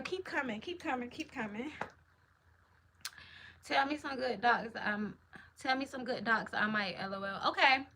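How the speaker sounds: ordinary talk, nothing marked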